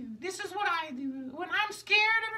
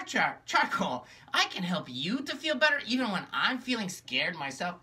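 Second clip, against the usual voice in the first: gloomy low puppet; 12 semitones lower than usual. Acted. Magenta tells her sister how lonely she is, low and gloomy. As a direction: sigh it out like a sad puppet.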